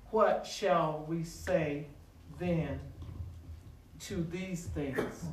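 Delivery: low, soft, slow reading with pauses; hushed, deliberate recitation; measured scripture reading. Real, not acted. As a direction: read the verse quietly, phrase by phrase.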